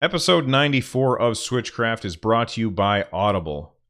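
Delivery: upbeat podcast ad read; sponsor read. Acted. Podcaster reading the Audible sponsor spot, upbeat. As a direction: sell it like a host reading an ad. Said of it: "now I'm gonna do the sponsor read".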